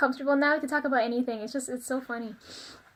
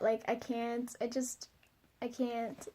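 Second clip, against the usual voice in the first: much softer, fading out; trailing off; 10 dB quieter, slower than usual. Retold or imitated. Telling director guy she can't meet him, fading quietly. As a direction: let it die away, embarrassed. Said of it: "I'm so uncomfortable".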